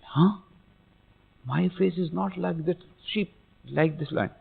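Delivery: very soft, puzzled discovery; hushed wonder. Acted. Small lion seeing its own reflection, hushed wonder. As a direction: drop right down in volume as it dawns. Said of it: "the small lion looked in this reflection".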